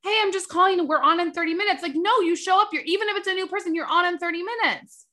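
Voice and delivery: mock-sweet phone voice; mocking caller. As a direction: parody a silly confirmation call. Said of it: "when you get your hair cut and go".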